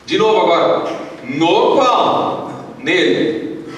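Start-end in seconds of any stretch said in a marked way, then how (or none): 1.2-3.7 projected Bible reading; scripture reading. Acted. Pastor reading Efésios for the church to join, measured declamation. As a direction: declaim the verse, stretching the cue words. Reads scripture aloud to congregation.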